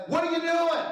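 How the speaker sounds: put-on high, incredulous teen voice; mock a son scolding his dad, pitched high; teenage son questions his father's driving, high and incredulous; imitating teenage son. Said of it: "he says".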